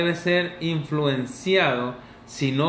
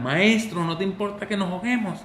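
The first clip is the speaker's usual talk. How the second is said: calm hurried reading; 4 semitones higher than usual. Shown as a demonstration. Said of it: "Y le gritaron".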